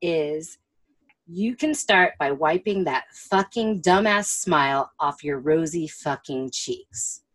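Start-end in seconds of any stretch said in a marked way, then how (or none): 1.3-7.2 imitating an angry customer. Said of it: "the first thing he says to her".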